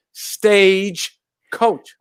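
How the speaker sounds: stage coach, stressing stage. Shown as a demonstration. Reading stage coach off the page, stressing stage. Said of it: "I always said it was a state coach".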